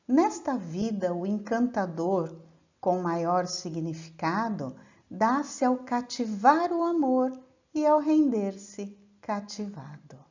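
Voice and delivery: measured, unhurried verse reading; poem recitation. Acted. Teacher recites a trova to the class, measured and poetic. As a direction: declaim the trova with care.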